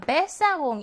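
베사공 with 베 stressed; 베사공, accent right on the first syllable 베. Shown as a demonstration. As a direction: hit the opening 베 in 베사공. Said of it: "일 음절 강세어이고요".

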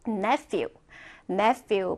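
"nephew" said carefully as a model; teacher's model "nephew", set apart; model pronunciation. Shown as a demonstration. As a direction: pronounce "nephew" for learners to repeat. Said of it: "발음해볼까?".

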